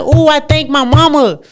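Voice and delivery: loud high ooh of delight; mock mirror admiration. Woman gushing at her own reflection in the mirror. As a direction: gush at your reflection. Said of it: "I look in the mirror and I be like".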